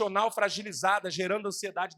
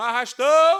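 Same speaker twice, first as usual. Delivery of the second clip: high, very loud street vendor's yell; 6 semitones higher, 11 dB louder than usual. Recalling a street vendor setting off a panic: imitating a street vendor yelling. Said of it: "Era só um camelô gritando".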